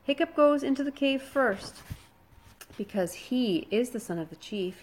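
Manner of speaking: high mocking sneer. A narrator's reading. Snotlout sneers at Hiccup before the cave, a high mocking sneer. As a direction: sneer at the chief's son. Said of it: "he sneered".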